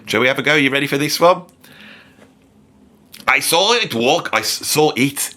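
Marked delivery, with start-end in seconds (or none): 3.3-5.3 attempted German accent; lightly mimicked German singer's accent. Comedian reading a band's lyrics as its singer, attempted German accent. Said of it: "with a German accent".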